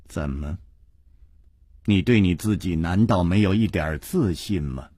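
low, soft, tender questioning; tender, low-pitched teasing; gently amused. A narrator's reading. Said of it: "石观音温柔地笑着说".

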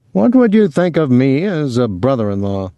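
a touch of hearty big talk; lightly voiced Willie. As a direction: put the question with a playful lift.

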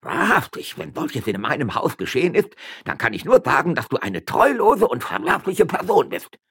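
high, loud furious charge; angry accusation. Acted. Magistrate angrily denouncing his wife. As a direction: denounce her as faithless.

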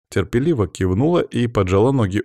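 usual speaking voice

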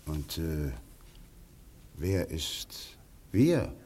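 slow, low, wary whisper; alarmed whisper. Acted. Gregory whispering slowly, alarmed at Simon's "we". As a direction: breathe the question slowly.

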